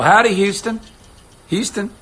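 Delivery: playful cowboy hello; cowboy howdy. Acted. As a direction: greet them like a Texan. Greeting city viewers.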